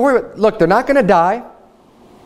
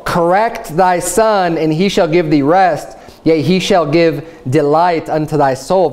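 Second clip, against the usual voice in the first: scripture reading. Acted. Reads Proverbs aloud.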